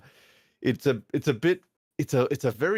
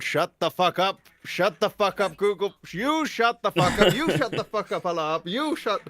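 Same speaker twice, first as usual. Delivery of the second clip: angry yelling; 9 semitones higher than usual. Real, not acted. Yelling at alarms going off.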